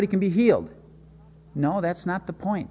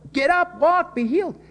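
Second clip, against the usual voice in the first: much higher, an excited command; eager expectation; 12 semitones higher than usual. Retold or imitated. The crowd expects Jesus to heal the man, excited and high. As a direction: call it out like the crowd hopes he will.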